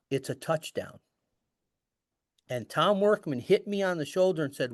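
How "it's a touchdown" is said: softer, low-key retold murmur; quiet retold aside; under breath. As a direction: say it softly, as if to yourself. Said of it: "I said under my breath, kind of".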